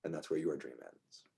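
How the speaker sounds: game master's dream narration. Acted.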